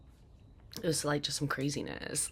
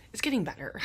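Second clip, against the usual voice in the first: hushed reassurance; 6 semitones higher, 4 dB louder than usual. Real, not acted. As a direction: murmur it to yourself like a hope. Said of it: "I say that all the time".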